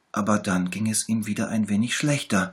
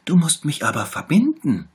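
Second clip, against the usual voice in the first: high, pitiful little tiger voice; sick little tiger; 9 semitones higher, 9 dB louder than usual. A narrator's reading. Little tiger shows the bear where it hurts, high and pitiful. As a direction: whimper it, poor sick cub. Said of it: "rief der kleine Tiger".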